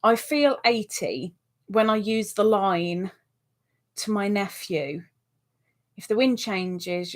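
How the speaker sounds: phrase by phrase, with pauses; deliberate, broken-up second reading; careful rereading. Real, not acted. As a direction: read it out piece by piece, puzzling it out. Rereads it to work it out.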